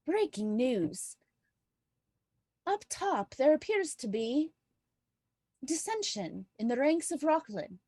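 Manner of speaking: lightly attempted Irish news anchor; a GM's tentative Irish accent reading the news. GM voicing the Nightingale's broadcast in a tentative Irish accent. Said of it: "I'm gonna attempt to do the accent, but I make no guarantees on my Irish accent".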